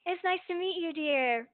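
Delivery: warm. A narrator's reading. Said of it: "Piper says warmly".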